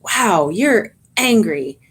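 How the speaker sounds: energised, engaged reflection; extra energy. Shown as a demonstration. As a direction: lean into it, matching their heat a little. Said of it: "putting extra energy into that".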